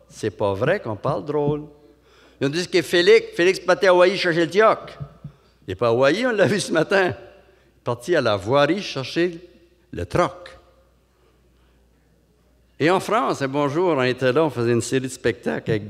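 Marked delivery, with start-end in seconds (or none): 2.4-10.6 Havre-aux-Maisons accent. Shown as a demonstration. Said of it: "ils mettent un I".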